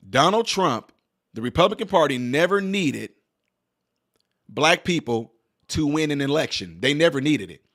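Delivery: slow, deliberate, word by word; patient slow explanation; said slowly. Shown as a demonstration. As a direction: lay it out slowly so nobody misses it. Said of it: "I'll say it slow".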